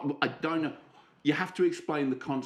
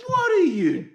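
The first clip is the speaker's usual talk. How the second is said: high, loud, drawn-out disbelief; crowd's mock outrage; 7 dB louder, slower than usual. Listeners react to the song, mock appalled squeal. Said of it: "everyone would be like".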